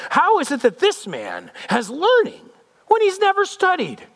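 high-pitched, incredulous scholar's voice; indignant leaders. Acted. Jewish leadership marvels at the unschooled teacher, high and incredulous. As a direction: marvel haughtily, pitch jumping up.

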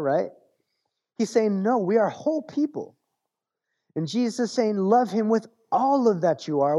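preaching at full force. Acted. Preacher rallying the congregation to worship, rising and forceful. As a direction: lift the congregation with each phrase. Preaching peak on whole being.

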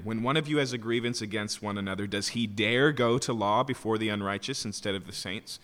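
brisk start, then "dare" stressed and held. Shown as a demonstration. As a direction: read it with the emphasis on "dare". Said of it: "I put the emphasis on the word dare".

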